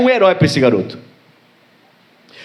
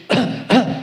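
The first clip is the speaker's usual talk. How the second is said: short staged cough; brief fake cough; imitated father's cough; 5 semitones higher than usual. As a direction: mimic dad coughing on purpose. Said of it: "o pai, né?".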